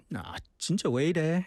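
annoyed at your own slip; exasperated self-reproach. Shown as a demonstration. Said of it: "in that tone".

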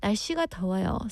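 rattled off fast and flat; quick flat weather remark. Shown as a demonstration. Host showing a boring blind-date opener, rushed and flat. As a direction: toss off a dull small-talk line quickly. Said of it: "saying, you know".

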